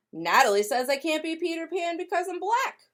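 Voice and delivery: put-on a small girl telling on someone; hurt little girl. Grace telling Ma what Natalie said, hurt child voice.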